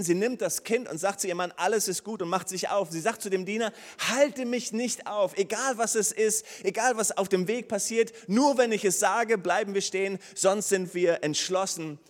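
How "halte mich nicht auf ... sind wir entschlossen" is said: determined command. Retold or imitated. The mother to the servant, a loud determined order.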